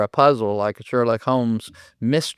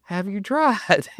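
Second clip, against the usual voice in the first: slow, raised, stressing tried; higher pointed retort; 7 semitones higher, slower than usual. Retold or imitated. The speaker repeating to the owner, slow higher retort. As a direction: lift it and lean on tried. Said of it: "And I go".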